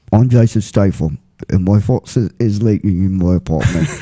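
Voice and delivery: deadpan action-hero gravity over a tiny problem; Statham, leaky faucet. Retold or imitated. Friend jokes Statham's faucet is leaking, same deadpan mock accent. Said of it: "Here's Jason Statham when he found out that his faucet is leaking".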